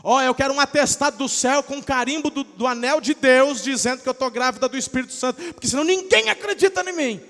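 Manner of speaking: a loud mock demand for heavenly proof; demanding Maria. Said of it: "fala assim". (Maria exigente, em tom de brincadeira)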